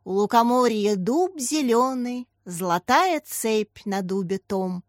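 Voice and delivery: verse recited with drawn-out swing; stretched, lilting schoolboy declaiming; singsong recitation. A narrator's reading. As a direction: chant the poem line in a singsong. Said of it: "продекламировал он нараспев".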